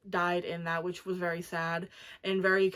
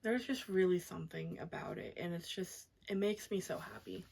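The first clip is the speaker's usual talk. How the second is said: breathy, much softer whisper; real hushed whisper; 2 semitones lower, 10 dB quieter than usual. Real, not acted. Reviewer touched by the book, soft real whisper. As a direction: let it fall to a moved whisper. Moved talking about the book.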